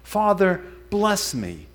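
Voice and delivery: lightly acted cry for blessing. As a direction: call out a mild plea to a father. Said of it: "he cries out".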